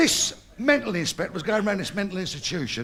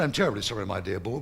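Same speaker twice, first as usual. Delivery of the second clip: put-on posh accent; 10 semitones lower than usual. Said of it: "Very posh geezer".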